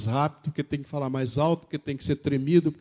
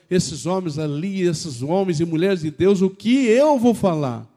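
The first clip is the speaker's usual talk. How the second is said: retold daunted exclamation; 2 semitones higher, 4 dB louder than usual. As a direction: recall being overawed, swelling to the end. Retells own daunted question before preaching. (exclamação intimidada, em crescendo)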